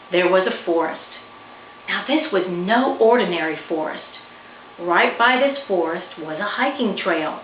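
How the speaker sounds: gentle storybook reading voice; story narration. A narrator's reading. Author reading her picture book to listeners, storybook narration. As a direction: read it like bedtime to kids.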